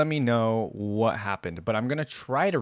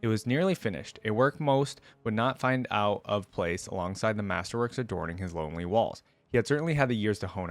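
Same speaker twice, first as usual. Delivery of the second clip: measured, even storytelling read; story narration. Acted. Vlogger reading a League lore story aloud to viewers, in a storytelling voice.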